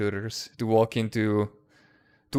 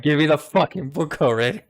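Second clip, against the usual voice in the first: higher, impatient retold outburst; playfully demanding, pitched up; excited mock demand; 4 semitones higher, 4 dB louder than usual. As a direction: act out being too excited to wait. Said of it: "I just get more excited".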